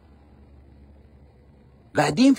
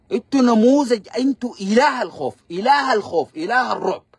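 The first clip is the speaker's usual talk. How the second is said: scornful outburst; 3 semitones higher than usual. Real, not acted. Mocking the enemy as cowards.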